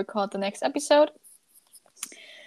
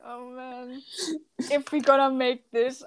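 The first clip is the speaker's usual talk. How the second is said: happy tears; 3 dB quieter than usual. Real, not acted. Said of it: "I'm laughing and crying at the same time".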